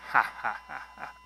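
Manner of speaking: a short taunting ha ha ha, lightly done; mocking laugh. The man on the subway mocking the woman, a lightly acted taunting laugh. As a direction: scoff at her with a mock laugh.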